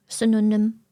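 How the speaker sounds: "synonym" with a German ü in place of the y. Shown as a demonstration. German speaker demonstrating their own synonym, with a rounded ü. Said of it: "like with an U".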